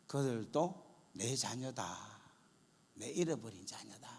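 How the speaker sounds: slow, hushed voice fading into a whisper; God's gentle prompting. Retold or imitated. God speaking to the praying pastor's heart, hushed and slow. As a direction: draw it out softly, almost whispered. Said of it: "하나님께서 제게 어떤 마음을 주는가".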